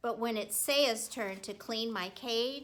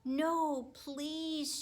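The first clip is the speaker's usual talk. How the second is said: frightened plea; 6 semitones higher than usual. A narrator's reading. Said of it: "looked up very frightened".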